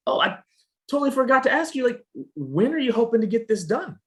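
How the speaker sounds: high-pitched, casual rep who just remembered something; role-played sales rep. Shown as a demonstration. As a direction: act out a sudden afterthought on a sales call. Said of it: "you can hear it in his voice".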